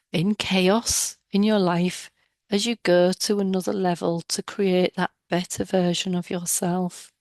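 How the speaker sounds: calm guided-meditation voice with long pauses; measured, soothing meditation leader. Real, not acted. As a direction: guide listeners inward, leaving space after each instruction.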